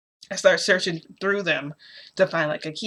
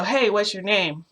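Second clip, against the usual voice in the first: drawn-out, higher-pitched retold call; 4 semitones higher, 3 dB louder, slower than usual. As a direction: mildly call out to someone hidden, stretching the words. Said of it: "why don't you call out to them".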